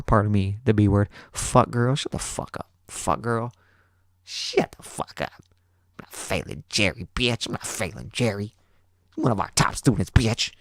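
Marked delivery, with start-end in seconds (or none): 1.3-10.5 mock teacher's hushed cussing.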